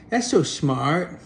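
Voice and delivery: "so" drawn out slowly with a rising tune; slow mock awe. The cat mocks the dog, slow and sarcastic. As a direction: marvel sarcastically at "so". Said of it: "dumb creature going".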